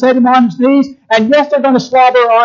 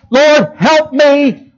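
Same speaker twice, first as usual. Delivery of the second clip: slow, drawn-out plea, higher; desperate mother pleading; 5 semitones higher, much slower than usual. Acted. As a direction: beg like a mother for her child. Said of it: "a mother wouldn't do to help her children".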